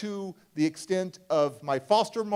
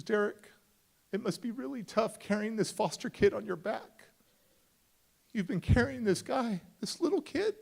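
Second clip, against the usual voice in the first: tag; 5 semitones higher than usual. Retold or imitated. Counselor gently consoles crying boy.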